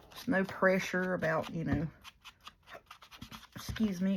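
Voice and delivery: talking through hiccups; words broken by a hiccup. Real, not acted. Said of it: "got hiccups".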